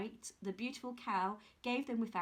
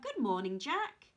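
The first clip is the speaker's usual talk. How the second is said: put-on peculiar old man. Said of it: "called out".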